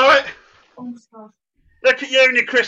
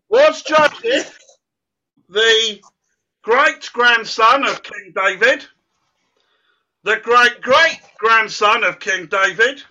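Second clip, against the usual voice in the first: slow, with pauses, stressing each added "great"; drawn-out quiz options; slower than usual. Real, not acted. Quiz host reading absurd options to children, slow and building. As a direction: build the list of greats, spacing them out.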